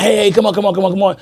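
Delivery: quick repeated hustle call; hurried urging. Retold or imitated. Quarterback hurrying his teammates to the line, imitated urgently. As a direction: rush the team along, lightly acted. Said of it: "should have been doing it fast".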